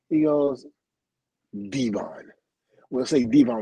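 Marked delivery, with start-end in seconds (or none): 1.7-3.6 "Devon" said as DEE-von, long first vowel; corrected pronunciation. Retold or imitated. Renames him, stressing new pronunciation.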